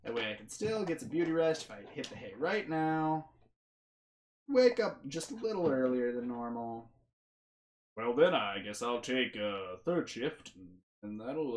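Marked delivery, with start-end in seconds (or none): 0.0-6.9 sarcastic. Acted. Character jokes back about taking fourth shift, sarcastic. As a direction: stretch the opening, playing along with the joke. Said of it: "he's doing this all sarcastically".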